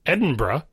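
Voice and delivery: "Edinburgh" squeezed to end in one syllable, "bruh"; hurried pronunciation. Shown as a demonstration. Podcaster giving the hurried option, bruh ending. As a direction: swallow the middle vowel of -burgh in "Edinburgh". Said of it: "in more of a hurry, you can say".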